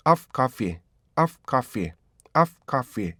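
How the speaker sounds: "of coffee" with a short "of" and released f; correct timing. Shown as a demonstration. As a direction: keep "of" brief before "coffee". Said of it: "이렇게 하셔야 되고요".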